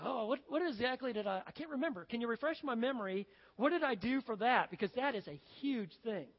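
flustered, trying to recall; puzzled king. Acted. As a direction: puzzle aloud over a forgotten debt. King puzzled over forgotten reward.

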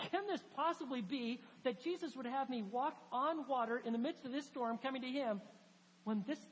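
mildly incredulous inner voice; doubting. Retold or imitated. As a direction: voice his doubt as a troubled question. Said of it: "He's doubting".

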